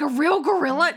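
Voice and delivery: high, loud amazed question; surprised kid. Retold or imitated. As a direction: ask it like an amazed child. Kids quoted asking.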